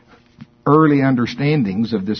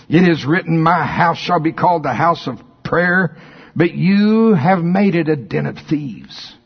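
forceful rebuke; 5 semitones higher than usual. Retold or imitated. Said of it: "there was a little pitch to his voice".

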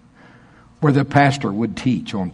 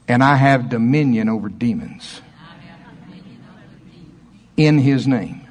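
firm, proclaiming each line; bold declaration; 2 semitones lower than usual. Shown as a demonstration. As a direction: declare it like a confession of faith. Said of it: "I double dog dare you to say it with me".

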